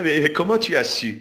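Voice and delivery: lightly voiced amazed reply; mock surprise. The American-looking man reacting to being recognised, mock surprise. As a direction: act caught out, asking how he knew. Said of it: "Mais le monsieur va réagir".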